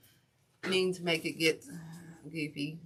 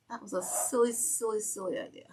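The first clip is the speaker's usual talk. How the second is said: mock silly voice; 5 semitones higher than usual. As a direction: tease the idea in a silly high voice. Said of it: "That was a silly idea".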